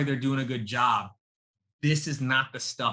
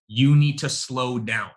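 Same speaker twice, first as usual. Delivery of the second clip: mock male manager; 5 dB louder than usual. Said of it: "male feedback to female reps".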